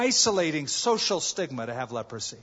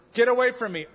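warning call; 7 semitones higher, 6 dB louder, faster than usual. Retold or imitated. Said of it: "In other words".

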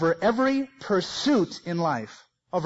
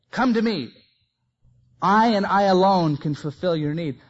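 proclaiming loudly; 6 dB louder than usual. Retold or imitated. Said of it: "He introduces himself".

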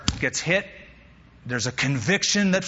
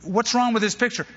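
mock puzzlement; 6 semitones higher than usual. Shown as a demonstration. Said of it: "this is laughable".

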